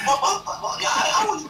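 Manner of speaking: high, loud mock stammering; flustered protest. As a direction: stumble over it in a squeaky voice. Flustered person caught out, retold.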